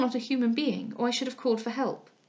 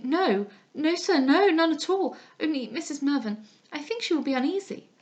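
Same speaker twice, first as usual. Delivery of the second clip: higher, flustered stammer of denial; frightened protest; 5 semitones higher than usual. Acted. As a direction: stumble over the words in fear. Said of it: "I was frightened dreadfully".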